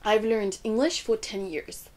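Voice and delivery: slow model English, LEARNED, ENGLISH and YEARS standing out; English sentence intonation. Shown as a demonstration. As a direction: stress LEARNED, ENGLISH, YEARS, glide lightly over the rest. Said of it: "Prenons deux phrases d'exemple".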